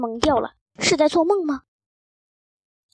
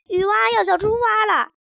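high, playful mum chiming in; joining the fun; 5 semitones higher, 4 dB louder than usual. A narrator's reading. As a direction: join the word game with relish. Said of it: "妈妈也加入进来". (妈妈兴致勃勃地高声接话)

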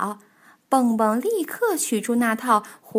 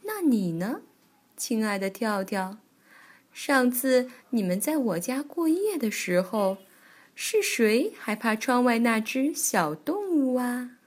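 lightly voiced, gently probing granny; a hint of an old bear granny. Granny Bear turns the question on Tiaotiao, lightly voiced granny.

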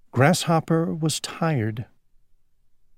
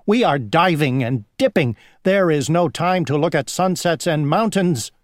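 dragonfly voice; 4 semitones higher, 3 dB louder than usual. Acted. Dragonflies boast.

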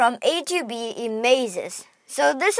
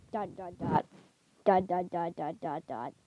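fading softer and lower; quiet trailing dots; 6 semitones lower, 12 dB quieter than usual. Pretend. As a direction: draw out the waiting, fading away. Waiting for slow computer.

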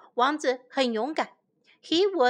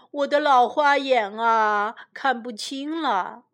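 put-on old king. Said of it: "他说".

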